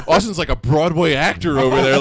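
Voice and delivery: mocking impression. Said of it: "he's, like, mocking me".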